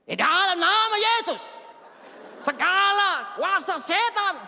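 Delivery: high, slow, loud rebuking prayer; Medan-style preacher prayer. Retold or imitated. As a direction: pray it big like a Medan preacher. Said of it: "Saya doa gaya-gaya orang dari Bat Medan". (doa lantang gaya pendeta Medan)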